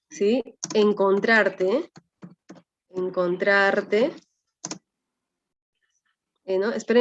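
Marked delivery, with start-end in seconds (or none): 0.7-4.1 drawn-out syllables with a lifted ending; slow dictation. Shown as a demonstration. Teacher sounding out an example as they write, slowly. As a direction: stretch each syllable as if writing it.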